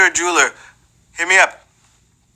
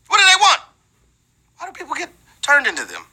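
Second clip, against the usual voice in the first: mock baffled squeak; 10 semitones higher, faster than usual.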